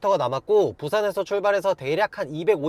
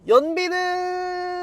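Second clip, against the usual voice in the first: 연비는 stretched very slow and much higher; suspenseful drawn-out build-up; 10 semitones higher, much slower than usual. Pretend. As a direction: drag out 연비는 like a game-show reveal. Dramatic reveal of fuel economy. (결과 발표 직전처럼 높고 아주 느리게 끄는 목소리)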